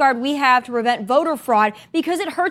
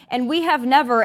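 ordinary talk, nothing marked

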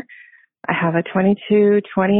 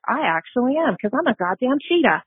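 defiant joy; 5 semitones higher than usual. Retold or imitated. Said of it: "I was like".

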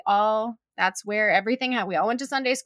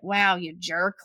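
low, muted self-reproach; mock annoyance; 5 semitones lower, slower than usual. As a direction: act out a mildly annoyed aside, pitched down. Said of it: "'cause I was so annoyed".

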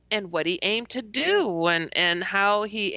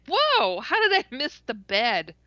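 shocked whoa; 3 semitones higher than usual. Retold or imitated. Falling off the bed, shocked.

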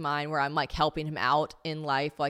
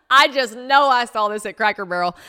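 loud, higher, laughing accusation; laughing mockery; 5 semitones higher, 11 dB louder than usual. Real, not acted. Teasing her own journal quote, laughing loudly. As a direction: burst out laughing at your own cheesiness.

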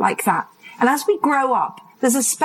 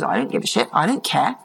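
put-on teen defiance. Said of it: "my strap line all through my teen years".

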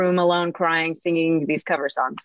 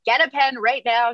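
mock bossy order, pitched higher; bossy command; 6 semitones higher than usual. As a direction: imitate the bossy friend demanding a pen. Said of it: "She was so bossy".

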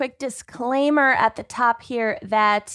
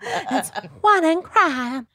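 laughing; 6 semitones higher, slower than usual. Pretend. Joking voices, laughing together.

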